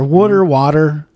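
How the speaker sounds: "water" as "wooder", then as "wah-ter"; contrasted pronunciations. Shown as a demonstration. Host comparing both ways, "water" as "wooder" then "wah-ter". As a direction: draw out "water, water", first "wood" vowel, then open "ah".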